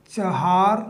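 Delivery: चहार in two syllables, "cha-haar"; correct pronunciation. Shown as a demonstration. Teacher repeating the corrected word while writing, correct pronunciation. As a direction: say चहार softly with a clear "ha". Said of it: "उसे बोलते हैं".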